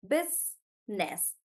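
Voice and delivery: business said slowly, split apart; slow syllable demo. Shown as a demonstration. Teacher breaking business into syllables for the class. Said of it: "teacher demonstrates syllable breaking".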